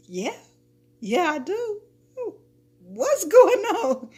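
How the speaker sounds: high, squeaky-scared imitation; mock timid. Coworker answering the fiance's threat, mock timid. Mimics the intimidated coworker's reply.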